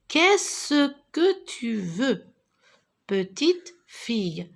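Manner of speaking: qu'est-ce que tu veux drawn out slowly; slow question. Shown as a demonstration. Teacher modelling the question for pupils, slowly. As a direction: ask it slowly for the children. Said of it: "Alors regardez ici, je dis".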